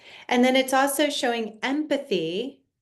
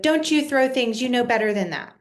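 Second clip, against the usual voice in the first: put-on scolding a child; 3 semitones higher than usual. Shown as a demonstration. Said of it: "escalating the problem".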